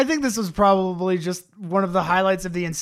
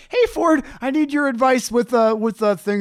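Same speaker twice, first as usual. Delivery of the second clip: high mock dude voice; 4 semitones higher than usual. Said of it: "and he's like".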